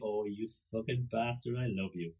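tender curse, quietly said; affectionate cursing. Shown as a demonstration. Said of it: "it's all in the inflection".

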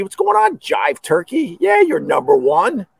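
high, bright call to the crowd; calling out hello. Real, not acted. Greeting his regulars, calling out high.

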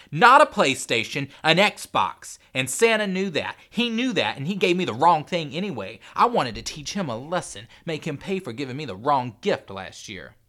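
put-on high, loud child's tantrum; furious boy yelling his grievance; angry shouted rant. A narrator's reading. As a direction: rant in spoiled indignation. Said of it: "Henry shouted back".

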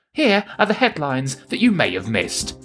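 measured satirical newsreader delivery; news read. Acted. Host signs off the show with spoof headlines, news read.

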